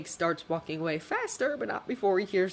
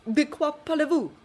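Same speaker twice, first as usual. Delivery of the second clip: high, louder French demand; demanding director; 10 semitones higher, 6 dB louder than usual. Acted. Director demands answers from Jake, high loud demand. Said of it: "the man demands".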